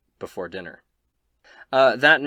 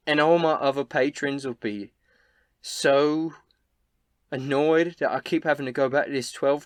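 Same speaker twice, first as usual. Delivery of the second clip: higher, louder innkeeper venting; exasperated Elsa; 5 semitones higher, 5 dB louder than usual. Acted. Elsa griping about rowdy customers to console a guest, exasperated higher voice. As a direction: build from halting story to aggrieved complaint.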